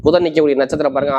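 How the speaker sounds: ordinary talk, nothing marked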